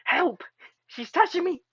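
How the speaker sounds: high, loud hammed-up yell; mock cry for help. Streamer playfully yelling for help about a clingy character, hammed-up. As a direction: shriek for help in playful panic.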